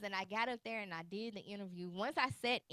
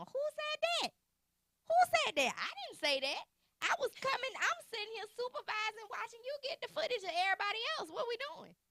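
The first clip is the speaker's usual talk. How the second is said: retold shocked disbelief; 13 semitones higher than usual. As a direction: reenact your panic at being sent up unprepared. Retelling shock at surprise interview.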